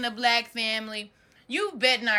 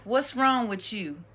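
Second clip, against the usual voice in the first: mildly voiced question from a nosy relative; concerned asker. Relative asking a child in trouble, matter-of-fact imitation. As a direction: ask it straight, lightly imitating family.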